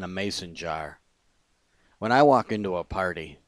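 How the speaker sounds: measured spoken-word reading, pauses between phrases; poem reading. Acted. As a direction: read your own poem line by line. Reads own poem aloud.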